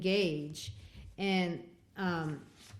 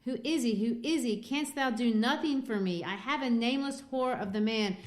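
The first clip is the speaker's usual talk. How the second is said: higher and louder, a pleading minister; desperate plea; 5 semitones higher, 5 dB louder than usual. Retold or imitated. Dimmesdale begging Hester to name the stranger, raised pleading voice. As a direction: beg her to name the man, pitched up and loud. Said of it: "goes on to say".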